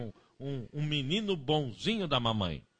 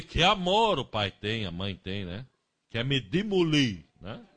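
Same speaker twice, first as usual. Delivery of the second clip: put-on sarcastic child; 7 dB louder than usual.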